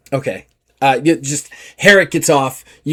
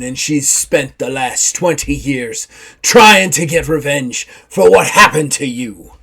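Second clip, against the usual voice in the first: put-on louder old pirate telling a story; lightly voiced pirate; 6 dB louder than usual. Simon Grimes telling the young man about his mother, lightly voiced. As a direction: recall his mother fondly, rough voiced. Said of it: "And he goes".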